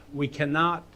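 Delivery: "we cannot" lifted, hanging before its ending; repetition refrain. Shown as a demonstration. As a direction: set up "we cannot" as an oratorical refrain. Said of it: "So that's the repetition".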